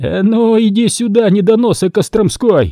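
shouting. Narrator reading Chislenko's answer to a patrol demanding a password, shouting. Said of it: "закричал Численко".

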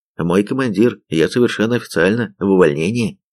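ordinary delivery

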